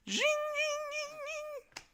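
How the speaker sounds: high sung zing noises; sung zing sound effect. Retold or imitated. Gamer imitating an anime power-up, high sung zings. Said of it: "He said".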